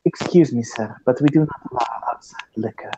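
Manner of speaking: put-on polite hostess with a Middle Eastern accent, fading soft. GM's hostess warning a patron about liquor, Middle Eastern accent. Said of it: "she has a much more Middle Eastern accent than that".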